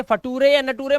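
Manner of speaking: फटूरे and नटूरे read wrongly as 'fa-too-re' and 'na-too-re'; wrong pronunciation. Shown as a demonstration. Teacher warning students with the wrong reading. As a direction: sound out the mistaken spellings फटूरे and नटूरे. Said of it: "मत पढ़ना".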